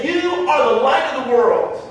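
"You" punched out emphatically; emphatic quote, weight on "You"; emphatic stress on YOU. Retold or imitated. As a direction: lean hard on "You", as if singling out the listeners. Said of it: "He said it in the emphatic".

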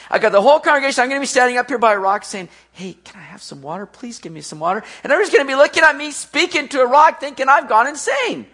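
fast, rising protest with a small voiced plea; worried protest. Moses imagining the whole congregation watching, worried protest.

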